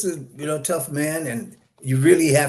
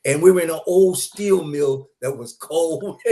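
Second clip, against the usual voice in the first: laughing; 3 semitones higher than usual. Real, not acted. Laughs recalling the long cold shoot.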